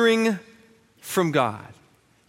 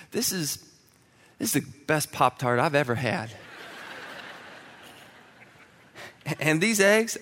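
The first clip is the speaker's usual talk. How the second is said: sugary fake praise, softer; mock adoring praise; 2 semitones lower, 5 dB quieter than usual. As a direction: gush lovingly over awful food, tongue in cheek. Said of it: "look at him with love in your eyes and go".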